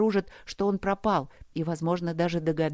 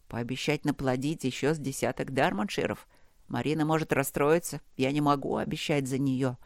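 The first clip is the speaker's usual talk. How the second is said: lower, weary voice of a trapped man; delirious half-prayer; 3 semitones lower than usual. Acted. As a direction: talk to the dark, half mad and exhausted. Delirious bargaining with darkness. (бредовая полумолитва, тихо и устало)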